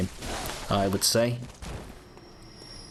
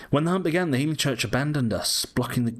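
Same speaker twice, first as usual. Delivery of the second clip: lively Cockney read-aloud, pitched up; old Yarnum Cockney accent; 4 semitones higher, faster than usual. Acted. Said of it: "the good old Yarnum accent".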